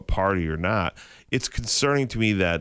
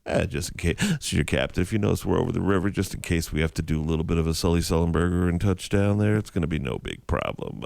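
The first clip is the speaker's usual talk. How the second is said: casual captain; 5 semitones lower, faster than usual. Retold or imitated. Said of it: "he's like".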